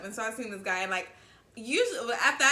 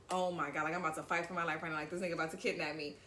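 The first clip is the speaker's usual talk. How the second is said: scared; 5 semitones lower, 7 dB quieter, faster than usual. Retold or imitated. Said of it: "I was so scared".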